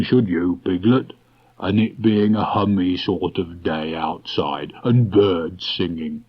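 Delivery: slow, contented musing; slow dreamy Pooh. Acted. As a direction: linger over each happy thought. Pooh's slow dreamy answer.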